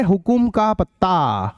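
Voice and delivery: slow, spaced out for writing down; slow dictation. Shown as a demonstration. Teacher dictating the fifth question, slow. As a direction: read the question out slowly, word by word. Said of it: "अब पांचवें question की बारी है".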